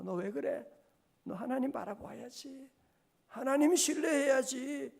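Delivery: building self-rebuke, ending loud; talking to himself. Retold or imitated. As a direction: chide yourself, rising to a shout. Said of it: "자신에게 얘기하고 있는 거예요".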